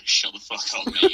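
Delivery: high-pitched fake Aussie; Australian accent. Shown as a demonstration. Claiming to have only said it in a high mock Australian accent. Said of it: "in Australian accent".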